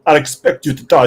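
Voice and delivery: put-on villain line in a makeshift Russian accent. Guest retries villain line for co-host, rough Russian accent. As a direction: try a mock Russian villain voice. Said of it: "do that with a Russian accent now".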